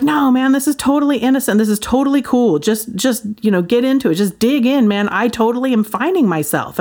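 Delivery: mock the friend's carefree enthusiasm; imitating excited friend. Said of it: "And he's super excited".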